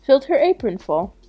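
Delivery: ordinary delivery, nothing marked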